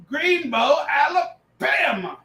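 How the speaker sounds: slow, drawn-out mock Forrest Gump; Forrest Gump line. Quoting the movie for the draft pick, drawn-out Gump voice. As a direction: drag out Alabama like Forrest Gump. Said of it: "What movie is that from?".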